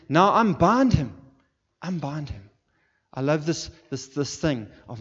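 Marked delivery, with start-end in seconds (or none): 0.1-1.2 high, drawn-out shouted order; big ringing shout, high and stretched; loud command. Acted. Acting Jesus commanding the people. 1.8-2.5 raised pitch at ordinary volume; firm, higher-pitched instruction; milder repeated command. Acted. Command repeated, dropping back in force.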